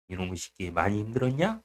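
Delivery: low, soft acted comfort; quiet, fond rough-worded sympathy; God consoling. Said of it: "이러면서 또 위로해주세요".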